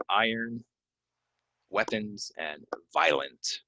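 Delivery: Iron, weapons, violent spoken one by one clearly; careful pronunciation. Shown as a demonstration. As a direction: model each word. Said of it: "That's how you pronounce those".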